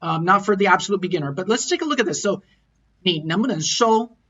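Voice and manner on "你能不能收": 你能不能收 with 能不能 run lightly together; glided middle. Shown as a demonstration. Teacher modelling the phrase, gliding quickly over 能不能. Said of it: "Notice how I say that middle part with the verb".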